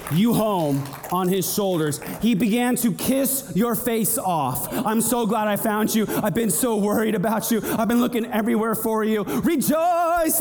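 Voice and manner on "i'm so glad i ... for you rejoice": the shepherd overjoyed to have found his sheep at last; joyful relieved shepherd. Acted. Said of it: "That's what he said".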